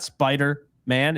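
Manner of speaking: "Spider-Man" broken in two, a gap before "Man"; wrongly split name. Shown as a demonstration. Host corrects listeners on the name, "Spider-Man" deliberately pulled apart. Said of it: "It's Spider-Man".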